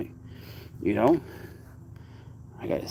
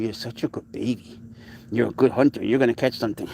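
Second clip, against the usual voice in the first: tender pet praise. Real, not acted. Coaching cat, tender praise.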